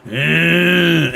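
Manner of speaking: long, drawn-out "ehhh" noise; imitated noise. Streamer imagining what the drone camera hears, imitated drawn-out noise. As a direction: mimic an eerie sound with one held note. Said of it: "you hear something going".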